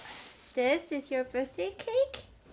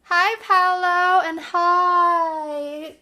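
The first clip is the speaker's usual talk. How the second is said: loud drawn-out greeting; 5 semitones higher, 12 dB louder, much slower than usual. Real, not acted.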